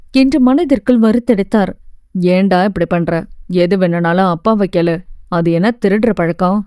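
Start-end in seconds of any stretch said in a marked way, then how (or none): 2.4-6.6 father gently scolding. Acted. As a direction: chide her gently, like a disappointed father.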